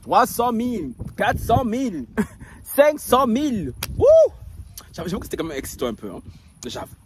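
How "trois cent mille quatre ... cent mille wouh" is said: higher, louder counting shouts; mock excited counting shout; calling out. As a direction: shout the sums through the wall. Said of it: "crier comme ça".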